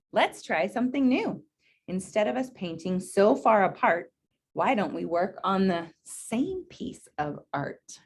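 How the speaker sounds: gentle, unhurried storybook read; reading to children. Acted. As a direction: read it out to a class of kids. Reads picture book to class.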